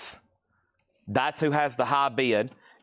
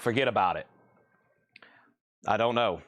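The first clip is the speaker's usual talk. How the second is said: light Italian-American accent, lower voice; 4 semitones lower, faster than usual. Shown as a demonstration. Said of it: "Is that my best Italian accent?".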